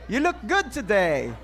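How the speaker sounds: put-on American accent, as a model to copy. Shown as a demonstration. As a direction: demonstrate an American accent greeting. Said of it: "At yun po ay American accent". (Amerikanong punto)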